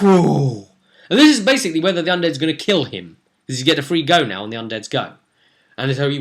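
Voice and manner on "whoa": whoa. Retold or imitated. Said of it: "And we're like".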